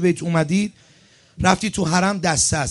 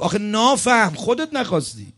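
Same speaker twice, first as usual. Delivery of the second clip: higher-pitched imitation of a Khorasani accent; 6 semitones higher than usual. Preacher quoting Allameh Bohlool's rebuke to the pilgrim, imitated Khorasani accent. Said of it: "با همون لهجهٔ خراسانی برگشت گفت".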